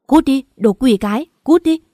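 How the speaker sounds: furious shout. Acted. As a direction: drive her out with a scream. Heroine screams at rival in hospital.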